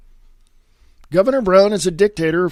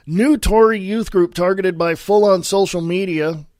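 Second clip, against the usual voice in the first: normal talking voice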